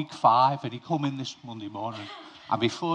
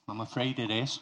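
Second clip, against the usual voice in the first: softer repeat, sinking a little lower; quiet repeat; 3 semitones lower, 6 dB quieter than usual. Shown as a demonstration. Pastor repeating the hard truth to his flock, softly. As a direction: let the line drop away gently the second time.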